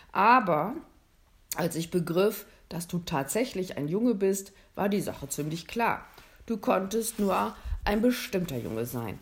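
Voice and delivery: lightly voiced Santa.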